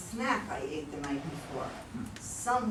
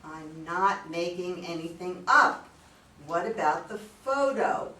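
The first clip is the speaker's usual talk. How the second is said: insistent; 6 dB louder than usual. Acted. Wife insists, upset.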